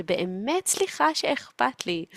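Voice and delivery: a touch of wounded pride; mock insulted. Mother hurt that her care is rejected, mock insulted. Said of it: "היא כל כך נעלבת".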